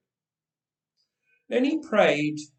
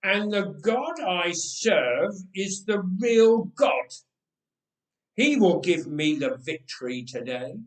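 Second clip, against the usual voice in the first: David's deep voice; 3 semitones higher, 4 dB louder than usual. Acted. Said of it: "in that deep voice he had used before the king".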